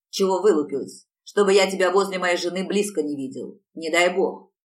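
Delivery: husband menacing Dayneka with a loud threat; threatening. Acted. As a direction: lean in and threaten her. Thuggish husband threatens young woman.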